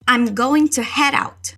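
slow, clear teacher model; slow model phrase. Shown as a demonstration. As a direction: spell it out slowly for repeating. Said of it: "Repeat, head out". (devagar, para o aluno repetir)

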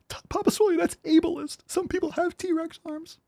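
very high squeaky offended whine; mock offended viewer. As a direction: play a touchy viewer scolding Papa Swilly.

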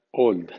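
put-on "old" dicho en inglés, con o larga y sin a; English "old". Shown as a demonstration. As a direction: pronuncia "old" como ould inglés. (di "old" con o inglesa)

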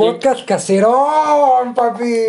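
drawn-out hype shout. Pretend. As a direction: draw the words out like a slogan. Calling out a catchphrase.

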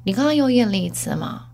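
measured, composed doctor imitation; feigned calm. Doctor cautiously telling the patient, mock composure. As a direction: keep it deliberately composed, with pauses. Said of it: "他也是故作镇定说".

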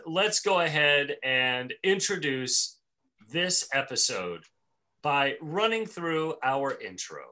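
slow, deliberate announcer phrasing with pauses; show intro. Acted. Host introducing the old episode, slow announcer delivery. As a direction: measure out each phrase like a formal introduction.

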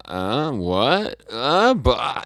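stammering, flustered mock disbelief; total shock. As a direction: sputter as if caught completely off guard. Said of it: "he's, like, in total shock".

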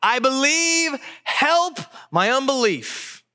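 high, drawn-out desperate cry. A narrator's reading. Father of the child answering Jesus, crying out. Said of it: "the father of the child cried out".

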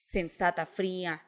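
outwardly calm. Retold or imitated. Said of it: "yo por fuera así".

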